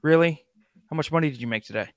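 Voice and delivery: a loud, nagging demanding partner voiced as a cat. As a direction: hound him like a disappointed spouse. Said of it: "they look at you and they go".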